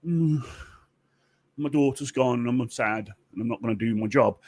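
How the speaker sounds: mild mock sulk; lightly sulky grumble. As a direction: play a moping goddess refusing to work. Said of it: "sulks. Just kinda".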